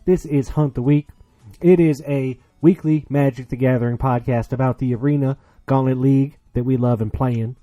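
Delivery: put-on podcast host hamming up a cowboy accent to open the show; hammed-up cowboy accent. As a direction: welcome the cowpokes like a Texas rodeo announcer. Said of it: "We gotta drop the accent".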